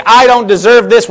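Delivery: a self-pitying "I don't deserve this,"; self-pitying complaint. Shown as a demonstration. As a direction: say "I don't deserve this," as a hurt protest, leaning on "I". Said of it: "we're looking at it wrong".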